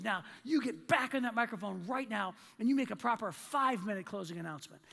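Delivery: emphatic imitation of a scolding manager, not yelled; retold angry order. Manager orders employee back on the microphone, mock-angry command. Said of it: "she's just yelling".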